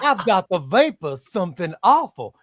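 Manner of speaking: half-laughing Southern belle impression; Southern belle accent. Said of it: "That's, that's the Southern accent".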